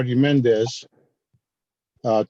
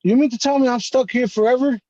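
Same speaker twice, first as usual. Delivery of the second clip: higher, a touch of incredulous alarm; mildly alarmed, higher hold up; retold alarm; 8 semitones higher than usual. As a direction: raise the pitch a little in dismay. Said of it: "I said".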